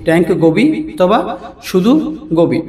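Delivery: ট্যাঙ্ক গোবি অথবা শুধু গোবি split word by word with pauses; slow repeat. Shown as a demonstration. Teacher repeating the English fish name for viewers, word by word. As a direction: repeat it slowly so learners can follow.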